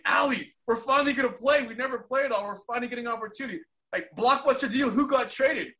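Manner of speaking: high, eager, rushing; bursting to share the news on the phone; retold excitement. Retold call to teammate.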